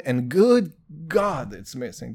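slow, drawn-out "good God" in an odd put-on voice, then dropping off; mock lament. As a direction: ham up the despair, slowly.

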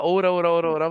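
loud hammy anime hero; anime hero catchphrase. Retold or imitated. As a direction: shout it like a shonen hero. Mocking a shouting anime hero.

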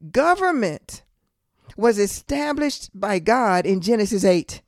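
slow, deliberate preaching with a pause after government; really slow. Real, not acted. Preacher teaching that God established government, really slow. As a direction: spell it out slowly, phrase by phrase. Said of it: "I'm gonna say this really slow".

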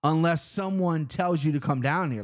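mock a guard laying down the rule; drawn-out warning in a retold guard's voice; imitated snapping guard. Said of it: "Like, snapped at me".

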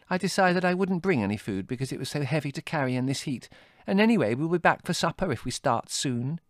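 put-on high-pitched young woman making excuses; defensive Margot. Voices Margot making excuses in story.

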